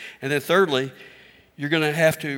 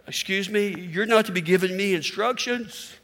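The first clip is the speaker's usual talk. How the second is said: higher, huffy put-down; mock indignant; 5 semitones higher than usual. Pastor mocking his own prideful reply to his kids, indignant. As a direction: act offended at being corrected. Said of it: "the rebel part of me wants to go".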